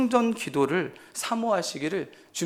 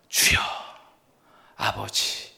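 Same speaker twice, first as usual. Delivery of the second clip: lower, whispered Lord, Father; murmured prayer demo; 9 semitones lower, slower than usual. Shown as a demonstration. Pastor showing the congregation how to pray, hushed murmur. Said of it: "이렇게 기도하라고 말씀드리고 싶어요".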